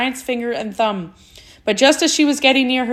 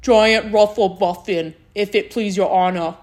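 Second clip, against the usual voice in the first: formally addressing royalty; 3 semitones lower than usual. A narrator's reading. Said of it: "said the giant".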